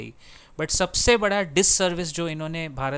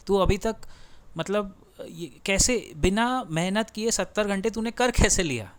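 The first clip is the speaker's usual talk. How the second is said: put-on higher, indignant jeering at a young achiever; mock old uncle; 5 semitones higher than usual. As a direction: scoff like a jealous elder who can't believe it. Mocking jealous old men's disbelief. (जलते बुज़ुर्ग की ताने भरी नकल)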